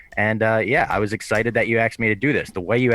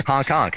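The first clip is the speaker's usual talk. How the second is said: goose honk; 3 semitones higher than usual. Pretend. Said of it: "White Sox Dave just needs that honk".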